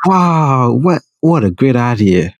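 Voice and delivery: slow, mock-impressed American dude; badly faked American accent, drawn out. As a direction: play an amazed American buddy. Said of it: "That's my American accent".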